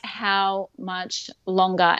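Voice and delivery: slow, dragged-out pleading; drawn out plea. Retold or imitated. Mother in labor begging midwives for an end, slow. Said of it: "but I'm like".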